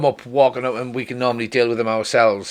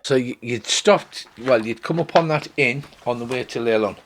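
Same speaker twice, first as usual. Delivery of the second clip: ordinary talk, nothing marked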